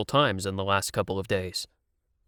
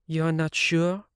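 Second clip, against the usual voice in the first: higher, sharp demanding heroine; rounding on the producer in his chair; angry young woman; angry Siv; 6 semitones higher, slower than usual. A narrator's reading. Siv questions him.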